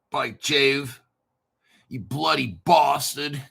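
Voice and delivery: mock English accent, slow and light; a lightly put-on English swear. Finding the contract code, cursing in a hint of an English accent. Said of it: "Probably my English accent".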